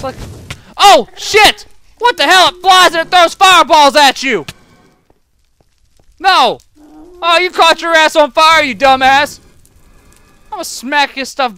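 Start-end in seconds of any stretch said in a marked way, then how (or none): 0.8-9.4 loud alarmed shouting; startled yelling. Real, not acted. Gamer yelling as a fireball creature attacks, alarmed. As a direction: shout in surprise and frustration. Fighting a fireball-throwing mob.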